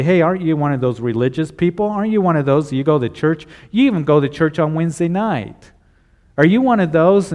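needling coworker. Acted. The boys at the job quizzing a churchgoer, lightly mocking challenge. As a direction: press the questions like a nosy workmate. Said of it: "you're around the boys and they say".

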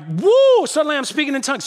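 sudden high whoop, then a fast rush of words; hammed-up ecstatic whoop; mock tongues excitement. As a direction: lampoon someone gushing over a spiritual high.

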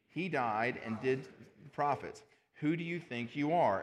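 deliberate, projected public Bible reading; measured declaiming of scripture. Acted. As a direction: read the verses out firmly to a standing congregation. Congregation stands for scripture reading.

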